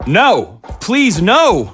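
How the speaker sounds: high, cracking cries of no; desperate pleading. Acted. Father begging the doctor to spare his son. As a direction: beg with everything you have.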